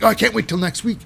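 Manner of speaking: high eager mock voice; excited Nathan. Nathan telling Kelly he can't wait, high eager mock voice. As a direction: gush like a kid before Christmas. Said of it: "He's like".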